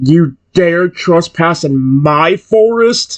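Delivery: slow, booming, giant beast dinosaur bellow. Reading a story aloud, voicing a huge dinosaur: deep rumbling bellow. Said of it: "The enormous dinosaur bellows".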